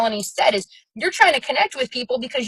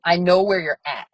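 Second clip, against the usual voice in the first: casual buddy; 7 semitones lower than usual. Retold or imitated. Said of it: "somebody's gonna be like".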